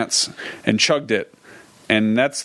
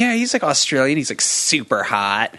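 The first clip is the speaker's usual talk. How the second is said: put-on girlfriend voice. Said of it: "And she'd be like".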